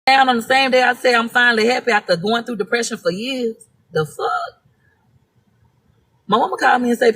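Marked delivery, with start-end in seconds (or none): 3.9-4.6 a stunned, breathless whisper; softer, whispered "the fuck"; whispered disbelief. Real, not acted. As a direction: mutter it under your breath in shock. Shocked aside about the house fire.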